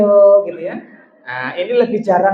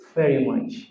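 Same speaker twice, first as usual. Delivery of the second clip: husband's tender answer; 4 semitones lower, 4 dB quieter, much slower than usual. Retold or imitated. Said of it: "Suaminya tarik nafas dulu".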